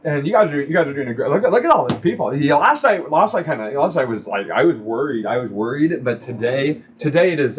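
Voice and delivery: put-on mildly drunk, rambling repetitions. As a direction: ramble tipsily with starts and restarts. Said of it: "Bonal is very drunk".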